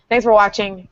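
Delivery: robotic sound on the voice; booming metallic robot. Real, not acted. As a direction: talk through a metallic robot filter. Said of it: "Deal with my robot voice".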